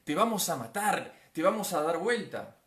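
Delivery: loud menace of the winds; threatening. Acted. Storm winds threatening to capsize the boat, menacing. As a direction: threaten loudly, like a hostile gale. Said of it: "Esos vientos que amenazaban".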